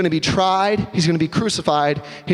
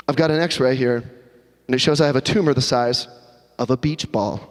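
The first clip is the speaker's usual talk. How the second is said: somber news; 6 semitones lower than usual. Acted. Husband telling wife bad news.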